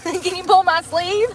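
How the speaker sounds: high, amused plea with a giggle; laughing request. Real, not acted. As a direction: ask slowly through a laugh. Laughing request for sleeve pulled.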